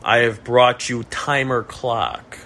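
put-on slow, light Russian accent. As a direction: drop the article like a Russian speaker. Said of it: "in a Russian accent".

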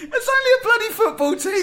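high, giggling protest; laughing through the words; trying not to laugh. Real, not acted. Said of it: "Stop making me laugh".

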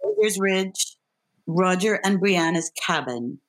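measured read of stage directions; calm stage-direction read; script stage directions. Acted. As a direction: set the scene like a script reader.

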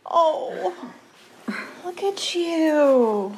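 high, slow, melting; tender. Real, not acted. Admiring son dressed up.

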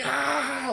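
high mock burst of laughter; imitated laughing cry. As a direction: act out someone cracking up. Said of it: "like, laughed so hard".

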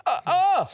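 mimicked winger noise. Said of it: "and the winger's like".

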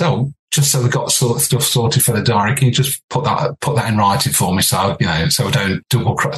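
lightly voiced mock-businesslike caller; a hint of a fake grown-up manager; trying to sound official. Young singer fakes a manager on the phone, mock-formal. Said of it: "trying to sound so silly".

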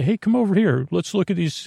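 a hint of a beckoning inner voice; lightly voiced brain part. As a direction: pitch up a little, like a thought calling you over. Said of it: "different parts of my brain that say".

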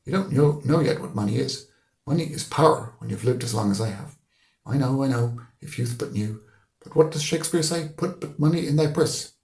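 high, loud lecturing about money; preaching old man. Acted. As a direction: lecture the boy on power. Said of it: "Mister Deasy said".

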